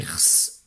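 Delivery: "rs" as throat R straight into hissed S; misspelling read literally. Shown as a demonstration. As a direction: say "rs" with no vowel at all. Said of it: "c'est pas ce que j'ai demandé".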